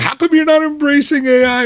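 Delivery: high, loud mock complaint; retold confrontation. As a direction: imitate an indignant caller demanding a reason. Retold caller confronting the team.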